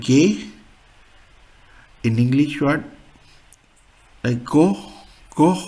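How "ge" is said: German letter G said "gay", hard g; pronuncia tedesca. Shown as a demonstration. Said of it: "which is called".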